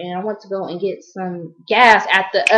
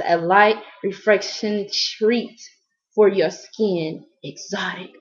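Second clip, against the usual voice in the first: slow, drawn-out product pitch fading to a whisper; mock advert read; 4 dB quieter, slower than usual. Showing viewers her body mist, slow ad read ending whispered. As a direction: draw it out like a perfume commercial.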